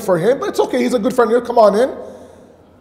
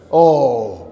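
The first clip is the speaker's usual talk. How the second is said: delighted praise. Retold or imitated. Gushing over friend wearing shirt.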